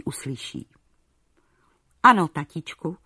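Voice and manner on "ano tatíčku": a touch of sugary eagerness; lightly chirped, sweet reply to father; sweet chirping. A narrator's reading. Daughter flattering her father the king, sweetly chirped. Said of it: "zašveholila sladce".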